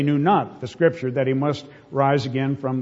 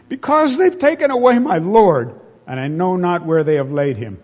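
anguished plea; 3 semitones higher, 6 dB louder than usual. Acted. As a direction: voice Mary's heartbreak at full pitch. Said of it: "can you hear the pain".

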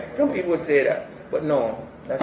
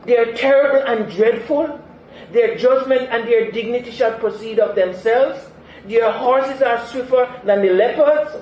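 voice of God; 5 semitones higher, 5 dB louder than usual. Acted. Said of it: "what he's telling Habakkuk".

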